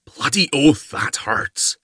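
loud pained roar that drops away; bellowing in pain. Acted. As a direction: bellow it like a wounded bull. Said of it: "he bellowed like a bull".

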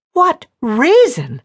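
slow, loud echo, leaping up on "reason"; furious squeak. A narrator's reading. Woman repeats his question in near fury, squeaking on "reason". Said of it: "her voice going up dangerously on the last word in a squeak of near fury".

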